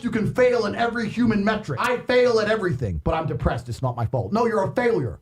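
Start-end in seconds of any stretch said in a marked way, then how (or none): 1.8-4.3 mock excuse-maker. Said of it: "mocking a failure's excuse".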